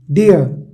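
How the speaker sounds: "डियर" as one single syllable. Shown as a demonstration. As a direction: say "डियर" in one unbroken sound. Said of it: "आप एक ही बार में बोलते हो".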